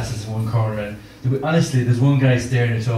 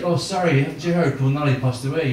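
gentle news-breaking. Acted. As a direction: break sad news gently, without any shout. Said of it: "break it to you gently".

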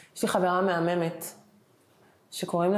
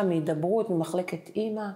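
normal talking voice

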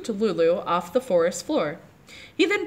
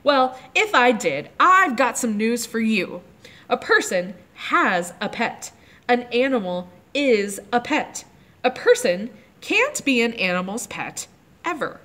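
bossy; 3 semitones higher than usual. Acted. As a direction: lay down the law like a bossy little girl. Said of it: "Lulu's voice was back to being its old bossy self again".

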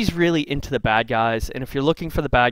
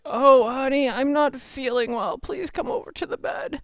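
put-on much higher, sweet old granny voice, slow on the middle line; wolf playing Grandma; 12 semitones higher than usual. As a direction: lure her in as a frail, sugary grandma.

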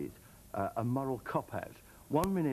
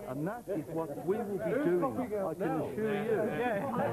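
firm declaration; 6 semitones higher, 3 dB louder, slower than usual. Real, not acted. Councillor forced to state his vote.

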